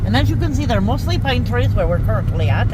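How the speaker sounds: put-on British accent. Touring a canyon by car, half-joking British accent. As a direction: channel the British girl with a hammed-up British accent. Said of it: "I don't know why I'm doing an accent".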